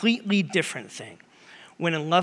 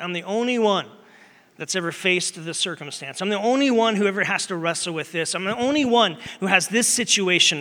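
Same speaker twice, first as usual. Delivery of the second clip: higher, exaggerated woe-is-me complaint; acted self-pity; 3 semitones higher than usual. Someone wrestling alone with their situation, acted self-pity. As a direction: lift "only one" high each time, as if pleading.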